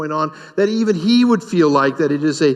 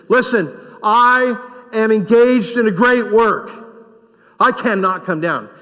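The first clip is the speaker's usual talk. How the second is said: higher and louder, firm; emphatic declaration; 4 semitones higher, 3 dB louder than usual. Shown as a demonstration. Pastor telling the distracting enemy no, emphatic. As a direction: declare it to your enemies as a flat refusal. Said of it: "look at your enemies and say".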